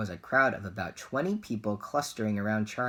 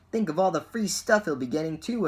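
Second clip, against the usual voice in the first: enviously; 8 semitones higher, 5 dB louder than usual. A narrator's reading. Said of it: "another boy said enviously".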